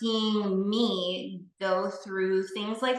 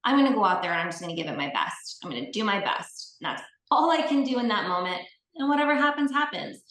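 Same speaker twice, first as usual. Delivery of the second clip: building resolve; 2 semitones higher, 4 dB louder, faster than usual. Retold or imitated. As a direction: talk yourself up until it lifts. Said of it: "I'm gonna say something different".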